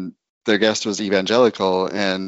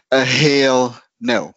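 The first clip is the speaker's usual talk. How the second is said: slow hell no; 3 semitones higher, 4 dB louder, much slower than usual. Retold or imitated. Retorting to Mormon cousin.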